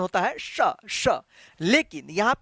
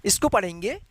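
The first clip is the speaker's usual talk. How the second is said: usual speaking voice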